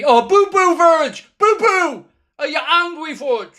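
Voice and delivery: high mocking baby voice, teasing an angry player; high sing-song baby talk teasing. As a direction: coo at him like a sulking toddler. Mocking angry Virgil, babytalk.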